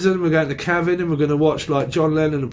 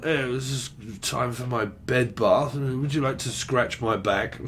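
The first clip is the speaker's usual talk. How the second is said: mock flirty patient; 4 semitones lower, 7 dB quieter, slower than usual.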